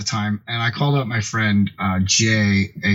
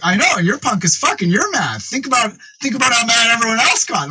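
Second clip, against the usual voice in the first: lightly voiced friend; 12 semitones higher than usual. Jay voiced defending name.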